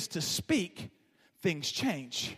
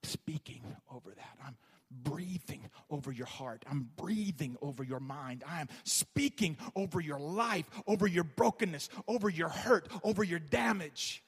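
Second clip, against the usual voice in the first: lightly voiced God. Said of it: "God right now is saying".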